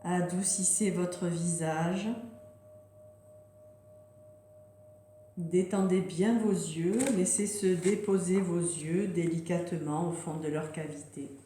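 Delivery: unhurried meditation voice with long pauses; guided relaxation. Real, not acted. Yoga teacher settling listeners into yoga nidra, gentle guided relaxation. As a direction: guide them gently into rest, leaving space between phrases.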